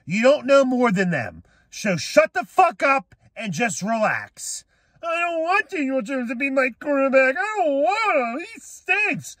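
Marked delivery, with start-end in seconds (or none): 5.0-9.4 high mocking whine of a complaining fan; mocking whiny hater.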